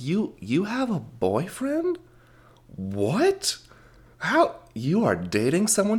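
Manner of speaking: high, hushed disbelief with swooping questions; incredulous. Retold or imitated. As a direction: act amazed at a child's big news. Acted astonishment at child's confession.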